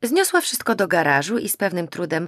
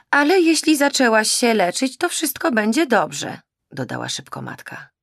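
higher, louder, eager motherly pleading; mother pours out well-meant encouragement; anxious mother; 6 semitones higher, 5 dB louder than usual. Acted. Mother encourages daughter to quit drinking, high and eager.

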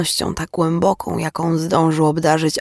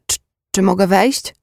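hesitant, stammered request with higher pitch; gentle question; 4 semitones higher than usual. A narrator's reading. Shocked visitor asks to be let in, gentle hesitant question. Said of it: "zapytał łagodnie".

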